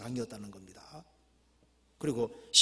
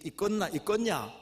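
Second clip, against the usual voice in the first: higher, questioning Jeolla ending; Jeolla dialect; 8 semitones higher, 6 dB louder than usual. Acted. Preacher trying the Jeolla ending, Jeolla dialect. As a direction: throw out the Jeolla rhetorical question. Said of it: "전라도 버전이래요".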